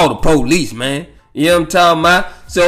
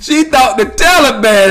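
words squeezed out through real laughter, pitched higher; laughing while talking; 6 semitones higher than usual. Real, not acted. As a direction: barely get it out for laughing.

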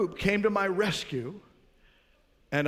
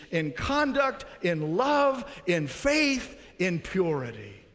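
slow, higher scripture recitation said in unison; congregational recitation; 5 semitones higher, slower than usual. Shown as a demonstration. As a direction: lead the church reciting the verse. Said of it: "let's say it together".

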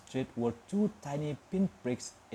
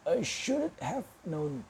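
amused muttering; 4 semitones higher, slower than usual. A narrator's reading. Old wizard muttering to himself at the watching cat, slow and amused. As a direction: chuckle it out to himself, knowingly. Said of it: "He chuckled and muttered".

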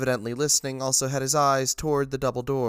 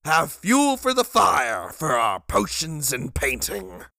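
loud, broken voice; 3 semitones higher, slower than usual. A narrator's reading. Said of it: "He was loud and his voice broken".

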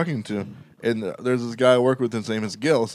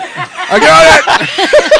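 eager janitor; 8 dB louder, much slower than usual. Pretend. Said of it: "And he's like".

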